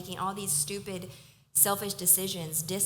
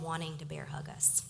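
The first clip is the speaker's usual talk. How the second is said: soft whisper; 5 dB quieter than usual. Real, not acted. Fond trailing line.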